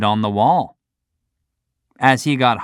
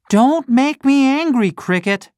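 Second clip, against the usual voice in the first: threatening puppet; 14 semitones higher than usual. Acted. Pinocchio warning the cricket, high and cross.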